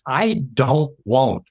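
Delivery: slow, weighty, passionate insistence; worked-up, emphatic. Real, not acted. Consultant telling how he protects employees, worked up. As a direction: land each word slowly, with conviction. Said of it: "sorry, I get excited when I do this".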